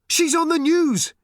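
high, loud call to the next room; excited shout. A narrator's reading. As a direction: yell it through the wall. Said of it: "shouted Arthur from the next room".

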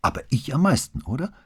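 high, insistent little daughter; eager kid fishing for affection; child's voice. A narrator's reading. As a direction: push Papa for the answer, voice lifted high. Daughter begs to be missed most.

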